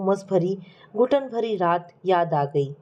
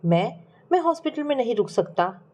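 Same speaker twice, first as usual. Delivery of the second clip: measured, dramatic storytelling with falling phrase ends; story narration. A narrator's reading. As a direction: narrate a tragic family tale. Narrates a sad family story.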